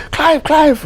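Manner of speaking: mock excited calling, pitched far up. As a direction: call his name eagerly from a distance. Lady runs to him calling.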